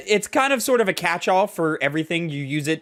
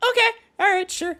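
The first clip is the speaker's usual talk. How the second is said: much higher, squeaky mock agreement; sarcastic giving in. Speaker giving up arguing with the company, squeaky sarcastic okay.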